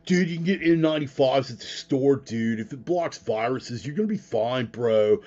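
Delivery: lightly voiced stoner dude. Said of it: "in a fucking stoner voice".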